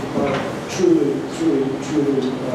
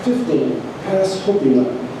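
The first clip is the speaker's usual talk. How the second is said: measured, declaimed poetry reading with pauses between items; poem reading. Acted. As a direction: read it out like a numbered poem to an audience. Reads own poem aloud to audience.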